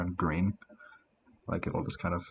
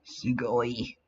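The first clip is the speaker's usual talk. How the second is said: whisper; 4 semitones higher than usual. Acted. Whispered anime word.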